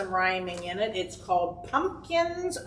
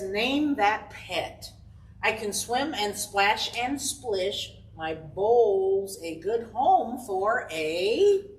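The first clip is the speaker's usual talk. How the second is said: slow, drawn-out riddle reading; reading to children; much slower than usual. Acted. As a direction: read it slowly so the kids can guess.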